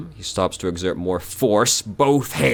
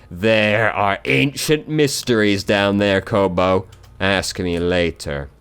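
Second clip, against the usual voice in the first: ominous slow corpse voice; 3 semitones higher, 6 dB louder, slower than usual. Acted. Dead man voice, ominous.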